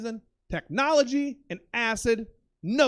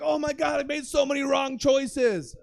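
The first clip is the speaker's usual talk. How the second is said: dawning panic; 5 semitones higher than usual. Retold or imitated. Staring at himself in mirrors.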